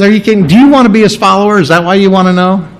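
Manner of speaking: quick, exasperated comeback to the Pharisees; frustrated retort. Retold or imitated. Healed man retorting to the Pharisees, quick and exasperated. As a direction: fire it back, fed up with their questions. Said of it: "he's all frustrated with them".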